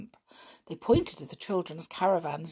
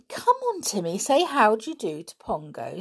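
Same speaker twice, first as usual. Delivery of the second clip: coaxing; 4 semitones higher, 4 dB louder than usual. Acted. Girl urging dog.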